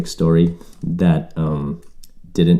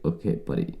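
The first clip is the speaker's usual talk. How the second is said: calming the mugger; 4 semitones lower, 10 dB quieter than usual. Retold or imitated. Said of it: "You're just like".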